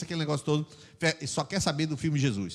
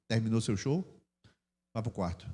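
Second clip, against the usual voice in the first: calm parent; 7 semitones lower, 6 dB quieter than usual. Acted. Models calm parent to tantrum.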